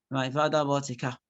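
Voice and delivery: low, flat, lifeless read; flat monotone. Shown as a demonstration. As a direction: say it dull and monotone. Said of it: "your voice won't be".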